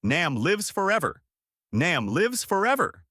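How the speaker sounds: high-pitched rallying cry; crowd roar. A narrator's reading. Crowd answering the speech, roaring it out high. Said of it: "The crowd roared".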